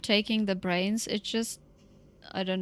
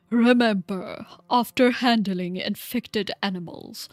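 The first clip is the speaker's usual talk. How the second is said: louder, lightly voiced old man; old guy voice; 5 dB louder than usual. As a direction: read it as an old scholar. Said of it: "I'll do my old guy voice again".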